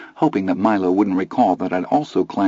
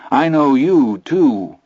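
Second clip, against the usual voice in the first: ominous; 6 semitones higher, 4 dB louder, slower than usual. Acted. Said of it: "Milo said ominously".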